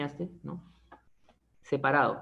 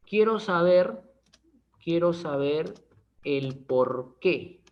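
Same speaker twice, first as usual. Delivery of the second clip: mock stern demand, last words dragged slow; lightly acted annoyed date; demanding answer; slower than usual. To a date who is always late, a mock stern demand. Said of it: "Esa es la que le preguntas".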